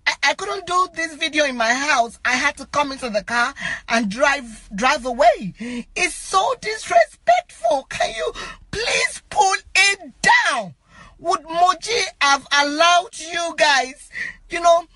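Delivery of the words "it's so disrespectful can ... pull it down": real emotional plea. Real, not acted. Begging people to pull the picture down, distraught. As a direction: voice pitching up in tearful protest. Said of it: "I'm so emotional about this".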